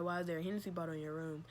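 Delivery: even, unbothered question, a bit quick; calm and collected. Retold or imitated. The mother's question retold too calmly, even and unbothered. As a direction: ask it calmly, as if nothing's wrong. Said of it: "she didn't say how I'm saying it, calm and collect".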